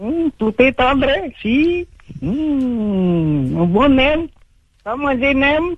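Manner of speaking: very high, slow, fake mock Chinese accent.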